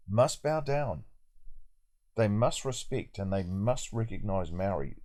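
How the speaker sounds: MUST given deliberate emphasis; stress on MUST. Shown as a demonstration. Telling viewers what the cartoon says councillors must do, stressing MUST. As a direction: lean on "must" each time it comes. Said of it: "Emphasis on the word must".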